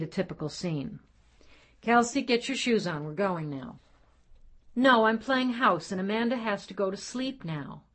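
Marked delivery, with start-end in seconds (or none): 1.8-3.8 firm father command. Acted. Father ordering child in story. 4.7-7.8 put-on child refusing.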